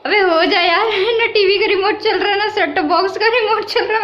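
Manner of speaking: high-pitched, laughing complaint; amused exasperation. Real, not acted. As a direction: grumble at it while fighting real laughter. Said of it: "मेरे को इतनी हंसी आ रही है".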